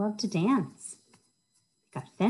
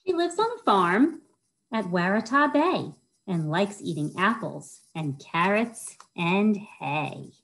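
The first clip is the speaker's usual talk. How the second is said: lilting rhyme-reading voice, bouncing on each rhyme; reading to children; 3 semitones higher than usual. Acted. Children's librarian reads a rhyming book to kids, sing-song storytime voice. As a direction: read it like storytime for little kids.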